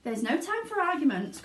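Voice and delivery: eager cry. Acted. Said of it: "cried Mister Wonka".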